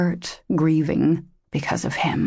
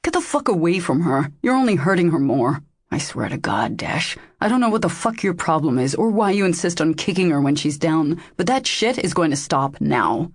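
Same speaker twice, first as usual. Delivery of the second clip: furious. Acted. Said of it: "fury glinting in his eyes".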